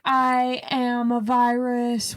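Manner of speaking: slow, brooding poem recital; emo angsty poem. Retold or imitated. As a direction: read it like a moody teen poet. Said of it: "super em-, emo, angsty".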